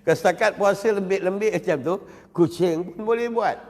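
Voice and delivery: slow, pointed repeat. Shown as a demonstration. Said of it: "Engkau macam tak puas hati cakap aku ni".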